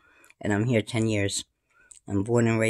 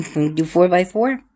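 playful question; 8 semitones higher, 6 dB louder than usual. Acted. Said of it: "repeat higher".

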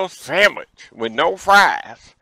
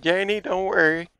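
neighbor calling out; 5 semitones higher than usual. Retold or imitated. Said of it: "she hollered out her door".

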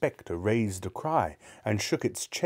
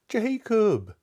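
high, drawn-out desperate call; imploring; 13 semitones higher, 4 dB louder than usual. Acted. Scrooge calling to his dead partner, imploring. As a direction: call his name as a high-pitched plea. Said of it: "he said imploringly".

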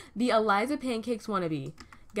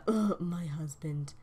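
slow disgusted groan; 4 semitones lower, 4 dB quieter, slower than usual. Retold or imitated. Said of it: "He's like".

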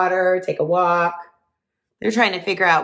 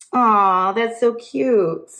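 aww; 3 semitones higher, 3 dB louder, much slower than usual. Real, not acted. Reacting to turkeys hugging.

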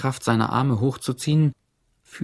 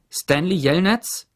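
higher, slow call across the lake; 8 semitones higher, 4 dB louder, slower than usual. A narrator's reading. Lawyer calls out to Stanley across the lake, higher slow call. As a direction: call his name from afar. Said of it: "rief sie".

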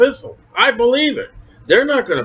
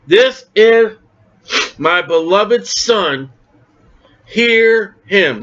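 voice of God from the cloud; 2 semitones higher, much slower than usual. Acted. The cloud speaks to the disciples, slow and solemn. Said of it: "The cloud speaks".

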